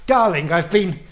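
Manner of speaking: lightly voiced posh film husband; a hint of a dashing 1940s leading man; Stewart Granger style. Husband home from work, lightly posh film hero asking for a drink. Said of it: "I'm trying to get".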